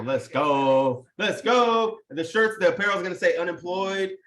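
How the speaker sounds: hyped cheer. Real, not acted. Host hyping new merch to viewers, excited cheer. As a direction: cheer it out, building on the repeat.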